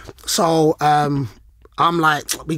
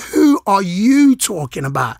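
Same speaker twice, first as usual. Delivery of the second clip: slow, drawn-out challenge; indignant comeback, each word leaned on; retold confrontation; 3 dB louder, slower than usual. Player standing up to the manager, confrontational. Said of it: "I stand up and I'm like".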